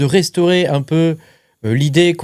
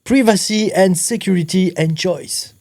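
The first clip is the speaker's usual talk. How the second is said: higher-pitched English with a French accent; amused, French-accented English slogan; Franglais; 4 semitones higher than usual. Real, not acted. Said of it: "en franglais". (franglais amusé, voix plus aiguë)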